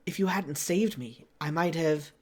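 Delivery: lightly attempted French Canadian accent. Reluctant player voicing a rescued mercenary, attempted French Canadian accent. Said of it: "in a thick French Canadian accent".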